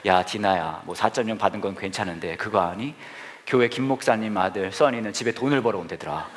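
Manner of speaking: low, mock-serious dad voice; retold father. Father comparing daughter with pastor's son, low mock-serious. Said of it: "아빠 되시는 최장로님이 딱 와서".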